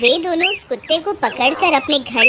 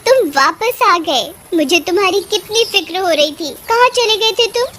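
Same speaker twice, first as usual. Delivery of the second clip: mildly hammed-up joyful reunion; overjoyed; 4 semitones higher than usual. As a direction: greet a lost pet with relief and delight. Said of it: "खुशी का ठिकाना नहीं रहा".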